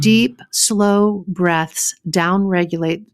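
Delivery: slow first try at a book read; slow tentative book read; slow reading aloud. Shown as a demonstration. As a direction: start reading the line slowly, testing it. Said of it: "I'm reading straight from their book".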